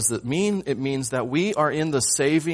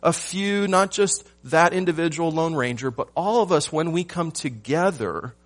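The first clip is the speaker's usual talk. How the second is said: higher and louder, driving the point home; rising preacher's emphasis; 5 semitones higher, 4 dB louder than usual. Real, not acted. Preacher calling out to his congregation, rising and loud. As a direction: build it up, call out to the whole church.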